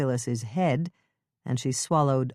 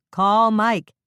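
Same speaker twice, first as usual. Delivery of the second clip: urgent call; 7 semitones higher, 8 dB louder than usual. Acted. Urgent order up the ditch.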